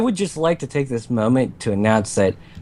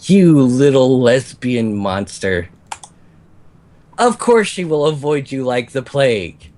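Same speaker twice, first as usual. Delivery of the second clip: succubus voice; 2 semitones higher than usual. Acted. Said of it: "succubus voice".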